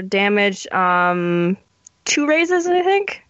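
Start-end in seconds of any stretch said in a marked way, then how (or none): 2.0-3.2 high squeaky gremlin voice. Pretend. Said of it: "how much I love your gremlin voice".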